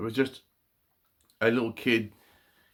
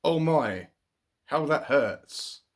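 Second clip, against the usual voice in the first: higher, louder "Oh my", then a slow, drawn-out "how that hurts"; pained cry; 4 semitones higher, slower than usual. Acted. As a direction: ham up a storybook boy's ouch. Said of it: "Donald shouted loudly".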